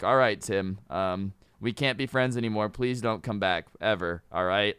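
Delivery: low, deadpan mock brush-off; awkward rejection. Imagined friend rejecting an odd kid.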